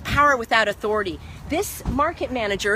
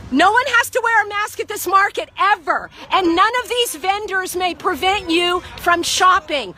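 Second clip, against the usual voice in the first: higher-pitched address to a crowd; public proclamation; 5 semitones higher than usual. Real, not acted. Activist addressing market shoppers about masks, proclaiming. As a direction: proclaim it to everyone within earshot.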